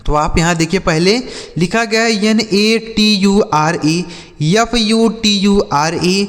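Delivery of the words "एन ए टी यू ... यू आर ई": slow letter-by-letter spelling; each letter given its own beat. Shown as a demonstration. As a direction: spell it out slowly for learners. Spells words out for learners.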